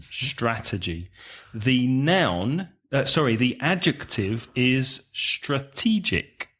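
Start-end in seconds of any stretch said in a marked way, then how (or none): 0.0-1.1 Strategy repeated softer, STRA still stressed; soft repeat for learners. Shown as a demonstration. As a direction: echo Strategy quietly with STRA first. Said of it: "Stress the first syllable".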